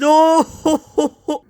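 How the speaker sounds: high, loud teasing ho ho; mocking laugh. The speaker teasing James, mocking laugh. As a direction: laugh at him.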